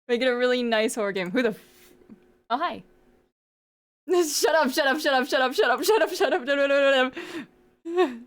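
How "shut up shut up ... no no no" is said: high, laughing pleas to stop; giggling denial, flustered; laughing protest. Real, not acted. Embarrassed protest at chat.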